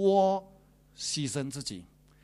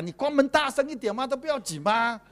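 voicing the wife; 10 semitones higher, 7 dB louder than usual. Voicing wife's permissive reply.

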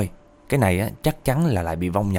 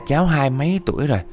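higher-pitched voice of a wandering spirit; possessed spirit; 4 semitones higher than usual. Retold or imitated. Spirit explains itself to grandma, lightly voiced spirit. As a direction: answer as the spirit, pitched up a little. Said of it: "Thì cái vong đáp tiếp á".

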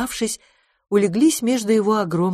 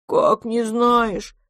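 put-on high, slow childlike astonishment; taken-aback big baby voice; surprised monster; 6 semitones higher, much slower than usual. A narrator's reading. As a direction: stretch it out in disbelief. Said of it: "удивилось чудовище".

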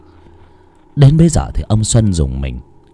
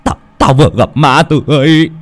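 loud, stammering fright; frightened; 3 semitones higher, 6 dB louder than usual. Acted. Terrified fisherman meets young Tư, stammering that he saw a ghost. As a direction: blurt it out in a stammering panic. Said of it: "tao sợ quá".

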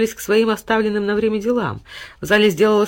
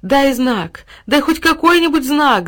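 higher, louder shout after him; calling out; 7 semitones higher, 4 dB louder, slower than usual. A narrator's reading. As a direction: call after her departing beloved. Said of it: "закричала девочка вслед". (крик вслед, выше и громче)

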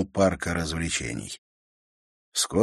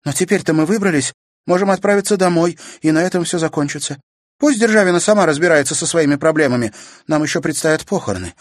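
sister's higher, insistent voice; Natasha's voice; 10 semitones higher, 7 dB louder, faster than usual. A narrator's reading. Sister pressing her brother to go home, insistent. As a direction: push him to drop it and go home.

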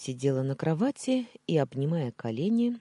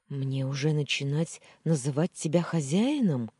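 snapping back; 4 dB louder than usual. Acted. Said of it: "огрызнулась я".

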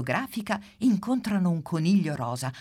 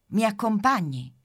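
Pimpa voice; 7 semitones higher, 6 dB louder than usual. Acted. Pimpa asks the mammoth.

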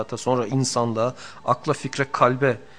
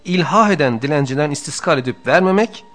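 louder, higher, measured reading of a sacred text; formal text reading; 3 semitones higher, 8 dB louder than usual. Acted. Teacher reading the book to his students, in a raised, formal reading voice. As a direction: recite the passage with weight. Reads the classic text aloud.

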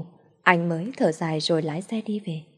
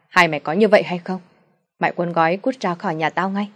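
angry father; 4 dB louder than usual. Acted. Father rants about the boyfriend.

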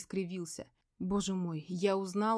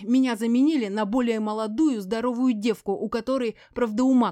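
loud, higher, venomous yelling; furious tirade; 3 semitones higher, 8 dB louder than usual. A narrator's reading. Veronika rages at her silent ex, loud yelling. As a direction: hurl insults at the silent husband.

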